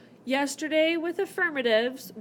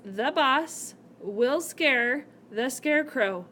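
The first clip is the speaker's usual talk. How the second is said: slow reading; slower than usual. Shown as a demonstration. Teacher reading the example to her class, slowly. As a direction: read the sentence out slowly, leaning on boss. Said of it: "the sentence says".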